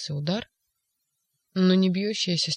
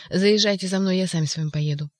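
louder shouting into the receiver; loud phone call; 5 dB louder than usual. Acted. Ivan on the phone to police, shouting. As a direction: insist over a bad line.

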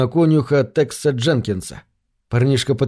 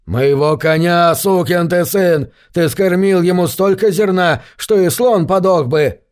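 angry; 4 semitones higher than usual. Acted. Buck throttles Gates in fury.

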